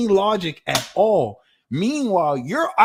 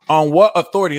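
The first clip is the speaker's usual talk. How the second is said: emphatic question; 10 dB louder, faster than usual. Shown as a demonstration. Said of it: "repeating the key question".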